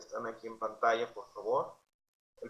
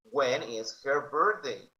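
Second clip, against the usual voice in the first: slow, clear When is her birthday; slow model; slower than usual. Shown as a demonstration. Teacher modelling for students, slow and clear. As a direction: spell out each word for learners. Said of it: "teacher models slowly".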